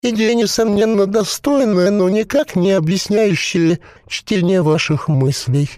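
a possessed corpse bubbling out its words; gurgling voice. A narrator's reading. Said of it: "забулькал усопший".

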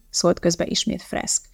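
ordinary delivery, nothing marked

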